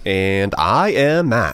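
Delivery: slow, booming TV host intro; game show host voice. Pretend. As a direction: announce your name like a quiz host. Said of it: "my best game show host voice".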